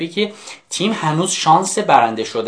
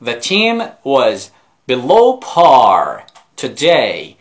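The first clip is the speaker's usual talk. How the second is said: slow model reading; 2 semitones lower, 4 dB louder, much slower than usual. Shown as a demonstration.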